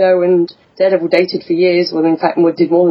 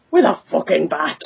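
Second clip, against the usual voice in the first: lightly put-on Irish accent; 3 dB quieter than usual. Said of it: "The bullseye Irish accent".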